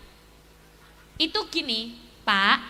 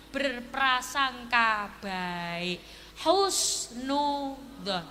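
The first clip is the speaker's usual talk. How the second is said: drawn-out key word; 5 semitones lower, 3 dB quieter, much slower than usual. Acted. Preacher stresses key lesson.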